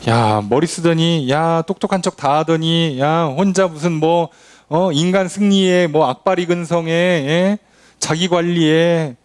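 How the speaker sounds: a slow, drawn-out mocking jeer; sneering taunt. Mocker taunting Israel after its fall, slow sneering jeer. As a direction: jeer at a fallen show-off, slowly. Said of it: "이렇게 하면요, 조롱거리가 돼요".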